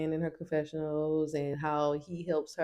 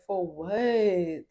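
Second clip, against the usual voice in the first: indignant rant. Retold or imitated. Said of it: "I'm like".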